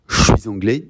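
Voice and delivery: "Je suis anglais" with suis linked into anglais by a z sound; liaison. Shown as a demonstration. Teacher showing pupils the loop, "Je suis anglais" linked with a z. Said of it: "to give that liaison".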